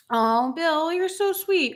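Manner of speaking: high, delighted "oh" at a kind comment; light up at the compliment; touched delight. Real, not acted. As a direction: pitch jumps up in happy surprise.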